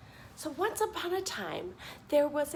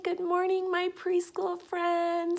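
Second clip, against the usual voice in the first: cheery greeting; 5 semitones higher, 4 dB louder than usual. Acted. Teacher greets preschoolers on camera.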